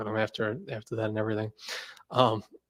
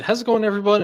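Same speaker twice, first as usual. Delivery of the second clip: higher, louder fast YouTube greeting; JP Knowledge impression; 8 semitones higher, 6 dB louder than usual. Streamer tries JP Knowledge's rapid channel intro, high and loud. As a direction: fire off the greeting like a rocket. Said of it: "Is it".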